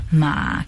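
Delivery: ma dipping down then up; third tone ma. Shown as a demonstration. Teacher showing the dipping third tone. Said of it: "que es la tercera".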